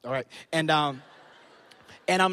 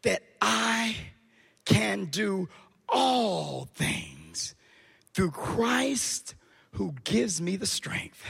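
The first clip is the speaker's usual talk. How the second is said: quiet reverent quote; 2 semitones lower, 7 dB quieter, much slower than usual. Acted. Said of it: "Paul said".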